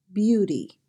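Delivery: Beauty with a D sound for the T. Shown as a demonstration. Teacher repeating the Midwestern model, "Beauty" with a D sound. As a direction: say "Beauty" as "byoo-dee", Midwestern style. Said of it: "We usually change it to a D sound".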